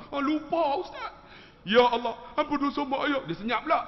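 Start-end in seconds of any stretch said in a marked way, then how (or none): 0.1-1.1 high, loud mock exclamation; flustered outburst. Pak Long forgot his parents, flustered outburst. Re-enacts man suddenly remembering. 1.7-3.3 high, loud hammed-up plea; mock pleading wail. Pak Long praying for his parents, mock wail. Re-enacts loud tearful prayer.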